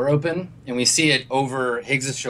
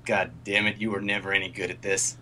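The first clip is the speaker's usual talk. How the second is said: put-on old man's voice; 3 semitones lower than usual. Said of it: "we hear an old man's voice".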